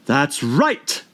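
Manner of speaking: lightly voiced approving queen; shouting queen. A narrator's reading. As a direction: call out satisfied. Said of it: "shouted the queen".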